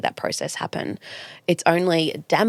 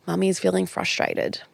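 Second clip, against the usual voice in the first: calm named feeling. Shown as a demonstration. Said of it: "I don't say it like that".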